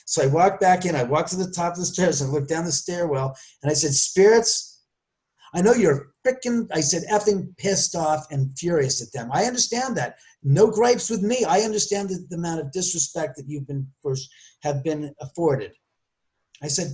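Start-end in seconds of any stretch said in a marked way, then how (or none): 3.9-15.7 fervent plea. Retold or imitated. Speaker addresses angry spirits from the stairwell, fervent. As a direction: speak up firmly to restless spirits. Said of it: "I was with the most fervent force".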